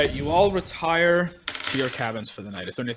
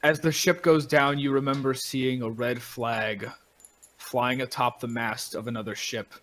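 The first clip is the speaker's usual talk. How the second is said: deliberate storytelling with long pauses; game master narration; slower than usual. A narrator's reading. Game master tells players of shipwreck and waking ashore, measured narration.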